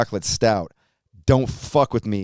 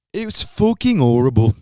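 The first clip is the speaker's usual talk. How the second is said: loud, higher-pitched put-on Birmingham accent; 4 semitones higher, 5 dB louder than usual. Shown as a demonstration. Host reviewing vegan Bailey's, in a put-on Birmingham accent. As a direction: do your best Brummie accent, loudly. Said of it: "That's my best Birmingham, England accent".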